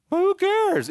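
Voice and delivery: high, bright shrug-off; breezy dismissal. Real, not acted. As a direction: toss it away carelessly. Shrugging off underperformance.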